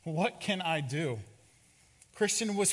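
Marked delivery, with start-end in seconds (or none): 0.0-1.2 slow, drawn-out plea; understated desperation, words stretched out; mild anguished cry. Acted. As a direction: cry it out slowly, in mild despair. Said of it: "as he cries".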